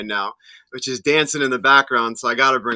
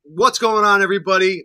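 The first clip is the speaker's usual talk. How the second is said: excited greeting; 6 semitones higher, 6 dB louder than usual. Real, not acted.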